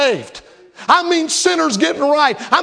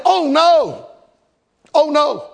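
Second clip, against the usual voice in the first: mock wail; 2 semitones higher, slower than usual. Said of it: "He said".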